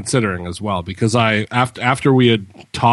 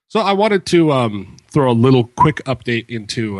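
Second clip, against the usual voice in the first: reverby room sound; talking in an echoey empty room. Real, not acted. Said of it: "sorry, I'm echoing all the help".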